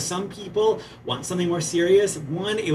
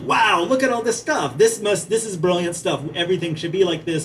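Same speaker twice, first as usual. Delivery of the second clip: mock Italian excitement; 3 semitones higher, 4 dB louder than usual. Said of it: "the Italians, you know, find all this stuff and like".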